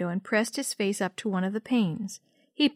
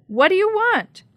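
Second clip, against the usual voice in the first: put-on a loud, higher old lady's demand; almost shouted; 10 semitones higher, 8 dB louder than usual. Missus Sheckley confronting Jenny on her porch, near shout. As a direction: nearly shout at the intruder. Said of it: "Missus Sheckley almost shouted".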